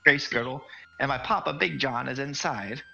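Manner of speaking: put-on proud kid introducing his dad; hobbit kid. Hobbit kid gives his full name, high child voice. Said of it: "hobbit kid repeats name".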